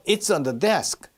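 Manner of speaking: "on" passed over lightly, "desk" carrying the weight; don't stress the word "on"; unstressed "on". Shown as a demonstration. Teacher contrasts the preposition, "on" left unstressed. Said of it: "on에 강세가 안 들어가잖아요".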